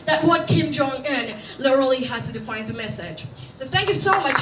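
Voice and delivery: lively news anchor delivery. Shown as a demonstration. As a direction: present it like a live TV news bulletin. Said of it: "I do anchoring in their style".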